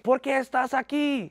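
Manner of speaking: quoted Spanish questioning. Retold or imitated. Guards questioning him in Spanish.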